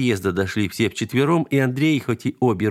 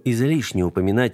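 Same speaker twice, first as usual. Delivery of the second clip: ordinary delivery, nothing marked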